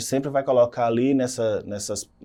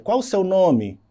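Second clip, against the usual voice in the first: a clearly higher questioning tune; direct question; 7 semitones higher, 3 dB louder than usual. Shown as a demonstration. Teacher showing direct question intonation to the students. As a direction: ask it like you truly want the name. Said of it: "São perguntas diretas".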